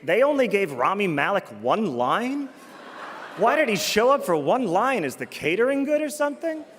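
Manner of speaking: baffled inner protest, pitch swinging; mock incredulity. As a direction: act out a bewildered moviegoer's complaint. Imitates own baffled thought while watching.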